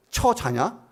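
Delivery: mock rude, scornful jab; a hint of a sneering kid; lightly mocking contempt; rude modern youth. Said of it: "첫자가 붙으면 이제 이게 다 비난".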